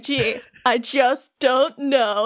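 very slow, drawn-out mock wondering; Keanu Reeves. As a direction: stretch it out, lightly playing a theatrical old dude. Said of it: "Keanu's just like".

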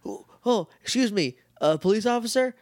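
high, prim tattletale voice; high hammed-up complaining lady; mock fussy old lady. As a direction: play a busybody reporting kids to the cops. Mimics old lady calling police.

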